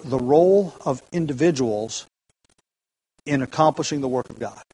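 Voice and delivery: measured citation from a commentary; read out as a quote. Shown as a demonstration. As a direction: read the quote out carefully, weighing "role".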